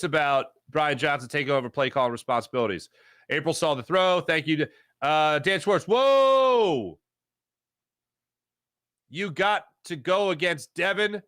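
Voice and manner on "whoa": high shouted whoa; big startled exclamation; loud surprised whoa. Real, not acted. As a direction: blurt it out in shock. Reacts to a chat comment.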